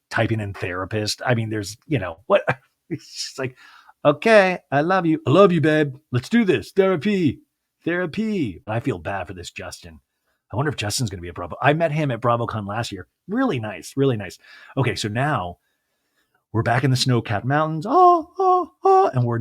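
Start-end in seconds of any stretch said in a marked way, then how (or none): 4.0-8.6 mock eager. Mocking Justin's fake agreement. 17.9-19.1 excited shout. Real, not acted. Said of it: "excited outburst".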